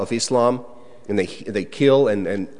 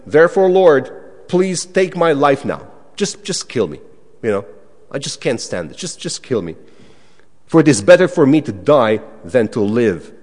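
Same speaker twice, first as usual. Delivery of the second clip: despairing plea; 5 dB louder than usual. Pretend. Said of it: "He says even".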